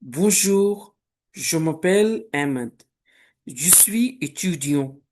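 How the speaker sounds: teacher modelling sentences for the class; repeat-after-me drill. Shown as a demonstration. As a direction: read each line out as a model for pupils. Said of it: "repeat these very sentences after me aloud".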